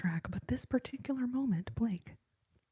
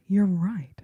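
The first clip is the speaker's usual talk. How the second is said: louder voiced burst; loud agreement; 8 dB louder than usual. Real, not acted. Streamer calling out agreement to a commenter. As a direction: break out of the whisper with a loud yes.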